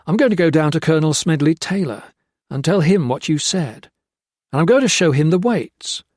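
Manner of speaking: loud, driving threat of revenge. Acted. Gray threatens Jones with death.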